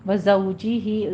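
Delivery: زوجی with a whistling ز and half-rounded lips; slow recitation demo. Shown as a demonstration. Teacher shows the sound to students, slow demo. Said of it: "زو میں زے کی سیٹی کی آواز".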